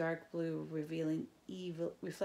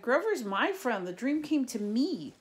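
raised insistent voice; 6 semitones higher, 7 dB louder than usual. A narrator's reading. Percy insists over crowd.

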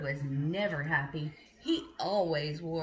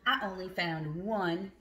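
mad squirrel. Acted. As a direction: stretch out the anger like a cross squirrel. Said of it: "I'm so mad".

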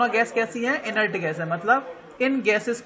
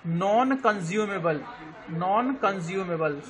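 slow, deliberate repeat of non consumable for note-taking; teacher dictating a key term slowly; slow dictation; 2 semitones lower, 4 dB quieter, slower than usual. Shown as a demonstration. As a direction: spell it out slowly so students can write non consumable.

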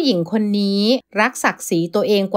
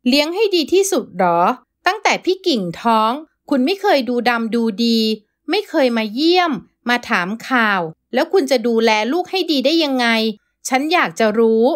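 bitter outburst; 2 semitones higher than usual. Acted. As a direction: throw it back at him. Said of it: "กระแทกเสียงอย่างสุดกลั้น".

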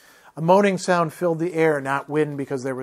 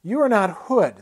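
a scowled, higher retort; scowling; 6 semitones higher, 4 dB louder than usual. A narrator's reading. Brother scowls at the apparition, mild annoyance. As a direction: throw it back with a scowl. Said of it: "the brother scowled".

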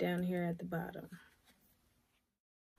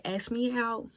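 a rapper's voice; 3 semitones higher than usual. Retold or imitated. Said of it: "a rapper's voice".

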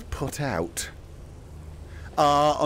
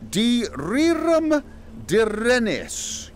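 spell incantation; 7 semitones higher, much slower than usual. Acted. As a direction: intone the spell like a wizard.

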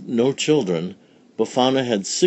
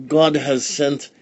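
put-on wise old sage; 4 semitones higher, 4 dB louder than usual. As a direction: proclaim it with reverence. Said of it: "cried the wise man".

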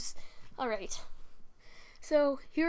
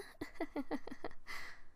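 quiet breathy villain snicker; hushed sly snicker; 4 semitones higher, 13 dB quieter than usual. Acted. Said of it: "I'll assume that's a snicker".

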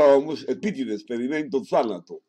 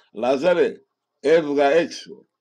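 a raised, slow call; loud command; 2 semitones higher, 5 dB louder, slower than usual. Acted. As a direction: call Lazarus out, firmly and slowly. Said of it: "φώναξε δυνατά ο σωτήρας".

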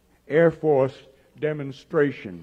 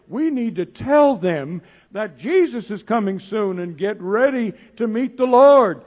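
building to a louder, higher call; urgent preaching; 4 semitones higher, 5 dB louder than usual. Retold or imitated. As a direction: Peter warning that the end is near, building urgency. Peter urging people to get ready.

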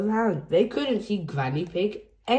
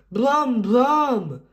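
higher, louder brum; excited engine noise; 5 semitones higher, 5 dB louder than usual. A narrator's reading. George seeing big tractors, excited engine noise. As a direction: rev like a tractor. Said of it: "George was excited".

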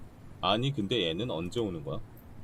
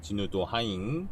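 slow, sing-song cutesy voice; slow cutesy reading with trailing endings; cutesy slow talk; slower than usual. Acted. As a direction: drag out the endings cutely. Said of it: "내가 정말 싫어하는 말투인데".

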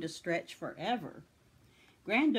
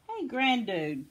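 higher voice, a touch winded; panting; 5 semitones higher, 4 dB louder, slower than usual. A narrator's reading. Tom just rescued from the stampede, mildly panting. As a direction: lightly act out of breath. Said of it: "panted Tom".

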